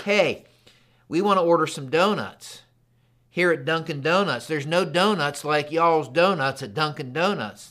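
retold eager donut order; mildly hyped-up dad at the counter; fired up. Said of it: "like, fired up and like".

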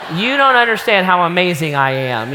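mock indignation. Husband silently fuming at wife, mock outrage. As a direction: play the wounded ego for laughs. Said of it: "I thought to myself".

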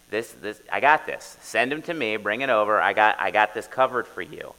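eager prophet taking charge; confident Elisha. Retold or imitated. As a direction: brush it off like it's no trouble. Elisha voiced as a confident helper.

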